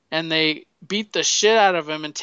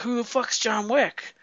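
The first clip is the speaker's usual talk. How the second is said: higher put-on voice, dismissive; mock cocky kid; 7 semitones higher than usual. Russian kid brushing off the threat, lightly voiced. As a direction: toss it off like an arrogant punk.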